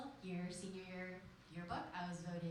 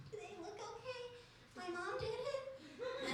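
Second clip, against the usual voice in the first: confused; 13 semitones higher than usual. Retold or imitated. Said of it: "I was very confused".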